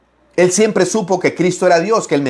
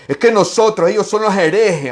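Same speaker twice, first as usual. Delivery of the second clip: indignant Pharisees; 5 semitones higher than usual. Retold or imitated. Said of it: "así le decían a Cristo".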